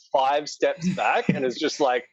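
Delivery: usual speaking voice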